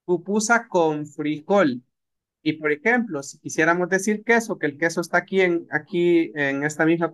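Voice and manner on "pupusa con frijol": slow, each word placed; teacher glossing iwan et; slow translation. Shown as a demonstration. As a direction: spell out pupusa con frijol slowly. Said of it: "iwan et".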